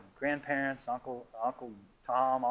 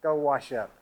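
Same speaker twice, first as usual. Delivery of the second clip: a hint of a mother's firm order, louder and slow; stern mother; 6 dB louder, slower than usual. Mother ordering father to wash up, a touch stern. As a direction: mom sending dad off, slowly. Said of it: "She said".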